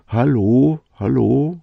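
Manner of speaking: loud high call into the mountains. Shown as a demonstration. Listener shouting hello across a valley, loud call. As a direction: call out as if to the far rocks. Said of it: "rufst du".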